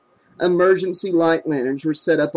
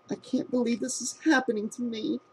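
soft, high, disbelieving whisper; girl whispering her disbelief at the crime scene; 8 semitones higher, 9 dB quieter than usual. A narrator's reading. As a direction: breathe it out in shock. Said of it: "she whispered".

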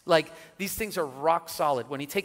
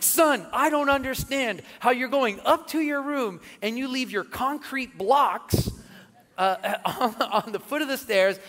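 lecturing his son; 8 semitones higher, 5 dB louder than usual. Retold or imitated.

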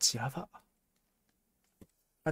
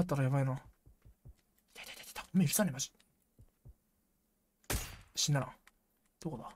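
breathy hushed whisper so the mic won't catch it; 24 dB quieter, much faster than usual. Real, not acted. Hiding from enemies nearby, whispering to himself. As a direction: keep it under your breath, hiding. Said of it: "声入ったらやばいな".

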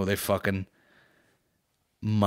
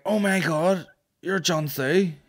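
high-pitched imitation of an excited fan; mock starstruck; 8 semitones higher, 3 dB louder, slower than usual. Drunk girl thinks she has met the rapper, hammed-up excitement. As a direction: gush as if meeting a celebrity.

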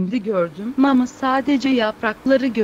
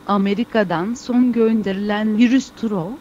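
foreigner Turkish. Acted. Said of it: "biz bu Türkçeyi yeni öğrenenlere".

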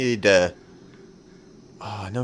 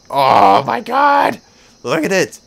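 high, loud, slow drawn-out; delighted squeal; 10 semitones higher, 10 dB louder, slower than usual. Real, not acted. Player amazed by a new area, delighted squeal. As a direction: gush with amazement.

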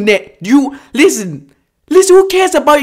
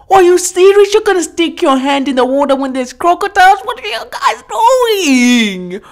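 exasperated scolding; 4 semitones higher than usual. Real, not acted. Viewer scolding people with hands in crocodile water, exasperated. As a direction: scold them in disbelief, dragging out the last question.

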